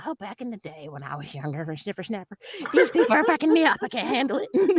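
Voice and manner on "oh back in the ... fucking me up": put-on elderly, senior citizen voice. Speaker weighs voice options for a role, trying a senior citizen voice. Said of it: "talk like a senior citizen".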